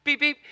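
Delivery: high light beeps; a polite tap on the horn; gentle beep. Pretend. Driver tapping horn politely, light mock beep.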